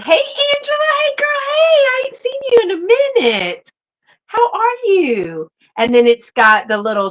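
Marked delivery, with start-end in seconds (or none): 0.0-5.5 excited greeting. Real, not acted. Greeting Angela who just joined the live, high excited squeal.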